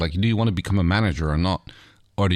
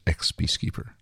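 smoky voice; 3 semitones lower, 6 dB quieter than usual. Acted. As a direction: breathe the word out low. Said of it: "smoky voice".

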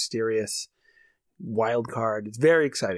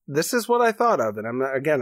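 ordinary talk, nothing marked

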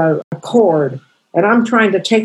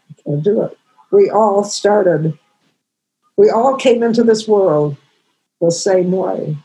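fighting back real tears to get the words out; crying. Real, not acted. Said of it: "She, Lynn's crying".

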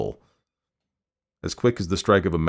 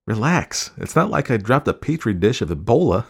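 higher voice breaking into a laugh at the end; light mockery with a chuckle; amused teasing; 6 semitones higher, 3 dB louder than usual. A narrator's reading. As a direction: tease him, then laugh. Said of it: "she laughed".

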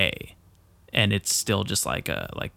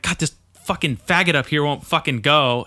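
retold road rage; 4 semitones higher, 3 dB louder than usual. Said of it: "and I was just mad".

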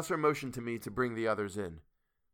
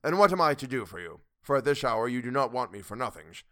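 bright hearty louder greeting; cheerful old professor; 6 dB louder than usual. A narrator's reading. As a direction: beam at her with relief. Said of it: "he said cheerfully".

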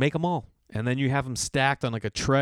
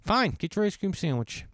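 defeated dad giving in; 4 semitones higher than usual. Retold or imitated. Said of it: "I'm like".

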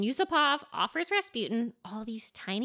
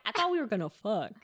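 laughing; faster than usual. Retold or imitated. Rasputin's line with laugh.

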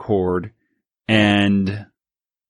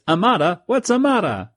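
much higher, puzzled chef; 9 semitones higher than usual. Acted. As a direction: squeak it out confused. Voicing Italian chef.

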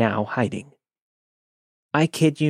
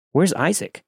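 sudden alarmed exclaim, pitched up; 6 semitones higher than usual. Retold or imitated. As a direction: blurt out the name in alarm. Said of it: "I exclaimed".

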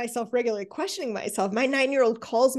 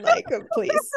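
much higher, sneering please; mock dismissive; 5 dB louder than usual. Host mocks a peer giving advice, with a high sneer. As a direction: scoff it, nose in the air. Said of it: "please, what do you even know".

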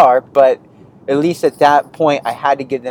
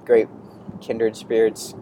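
mock polite goodbye. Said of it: "I kindly waved them goodbye".

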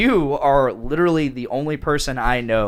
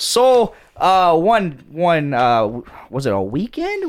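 put-on Wisconsin accent; 4 semitones higher than usual. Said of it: "in a Wisconsin accent".

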